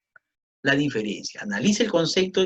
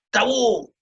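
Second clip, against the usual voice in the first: "Tabú" high, stress on "bú"; stressed final syllable; 8 semitones higher, 4 dB louder than usual. Shown as a demonstration.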